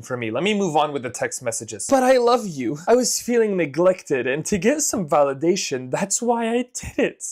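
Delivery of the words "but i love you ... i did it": high whiny begging voice; mock the begging boyfriend; hammed-up pleading lover; pleading cheater. Reading cheater's pleading text.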